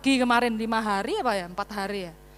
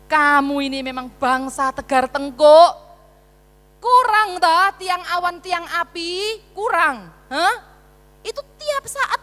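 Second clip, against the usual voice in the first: angry God; 3 semitones higher, 5 dB louder, slower than usual. Acted. Preacher voices angry God.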